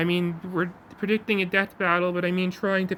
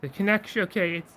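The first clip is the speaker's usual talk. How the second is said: ringmaster voice. Pretend. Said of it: "I don't know why I'm doing a ringmaster voice".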